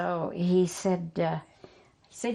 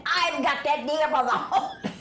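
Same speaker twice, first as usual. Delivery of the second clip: laughing through the words; can't hold back the laughter; 8 semitones higher than usual. Real, not acted. Laughing while quoting Daddy.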